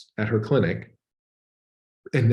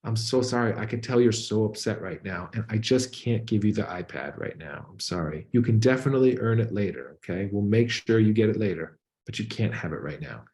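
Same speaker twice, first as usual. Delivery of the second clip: gentle soothing apology. Retold or imitated. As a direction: comfort him kindly while saying no. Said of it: "she might say something like".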